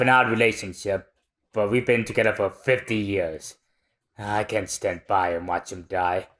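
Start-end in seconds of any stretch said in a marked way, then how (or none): 4.2-6.3 tearful. Acted. Old man's tearful confession.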